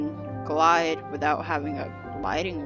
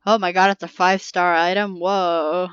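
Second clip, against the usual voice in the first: amazed; 5 dB louder than usual. Real, not acted. Player reacts to a five-star item, amazed. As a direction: react out loud, impressed by a rare find.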